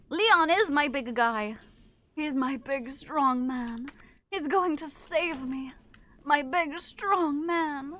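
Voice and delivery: slow, drawn-out doting voice; playful lovestruck drawl; mock swooning. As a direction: coo over your big hero. Swooning over game hero.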